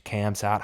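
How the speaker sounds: "Kamzat" said with a hard K, "Kam-zat"; hard K name. Shown as a demonstration. Trying the fighter's name with a hard K. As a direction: start "Kamzat" on a plain hard K sound. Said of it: "my pronunciation of a name".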